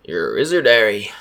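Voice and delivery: mock-solemn movie quote; Hagrid impression. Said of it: "And I'm like".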